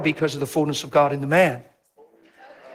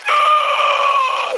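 a much higher, loud gasped "Oh!"; sudden realization; 4 dB louder than usual. Retold or imitated. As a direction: cry out as it finally sinks in. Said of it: "And she went".

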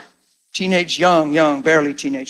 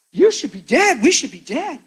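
higher, pressing; urgent; 8 semitones higher than usual. Retold or imitated. Telling the other driver they survived, urgent and raised. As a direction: press it home, voice lifted.

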